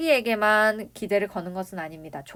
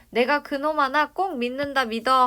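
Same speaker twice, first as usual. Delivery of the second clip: higher and louder, with trusting conviction; acted high expectation; 4 semitones higher, 5 dB louder than usual. Grandfather stakes his hopes on Jonghak, mildly gushing. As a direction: lightly play a grandfather brimming with hope. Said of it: "기대감이 완전 뿜뿜하고 있어요".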